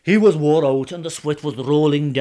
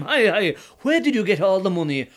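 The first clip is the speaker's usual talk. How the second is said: loud, higher amazed shout; amazed call; 3 semitones higher, 4 dB louder than usual. Acted. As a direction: call out in greedy wonder.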